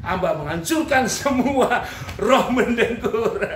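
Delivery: hammed-up, drawn-out prayer command with a laugh; mock prayer. Pastor casting out the spirit of snoring, mock prayer. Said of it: "Waktu Pak Pendeta itu berdoa".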